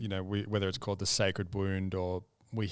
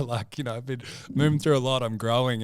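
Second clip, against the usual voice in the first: excited; 4 semitones higher, 6 dB louder than usual. Real, not acted. Excited about own growth.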